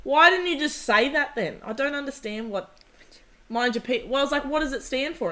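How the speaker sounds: put-on exasperated kid. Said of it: "And I went".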